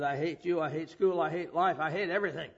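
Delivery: loud, hot-tempered outburst; angry football player. Retold or imitated. A mad football player yelling at his teacher, loud and angry. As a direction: throw it at him like a mad teen. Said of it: "who was really mad".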